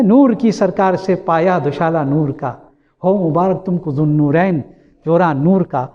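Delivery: slow, chanted couplet recital; poetic recitation. Acted. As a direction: recite the verse slowly and lyrically. Recites couplet a last time.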